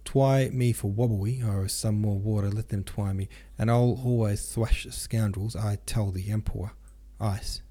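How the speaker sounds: Denisov's r's softened into w's; lisping r's as w's. A narrator's reading. Denisov ranting to Rostov, r's pronounced as w's. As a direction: turn every r into a w. Voiced Denisov with speech impediment.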